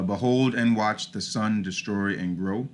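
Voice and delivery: slow reading, stressing every second syllable of "Behold and watch the sun destroy and grow"; "Behold and watch the sun destroy and grow" in measured unstressed-stressed beats; iambic rhythm. Shown as a demonstration. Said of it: "You can hear sort of the rhythm".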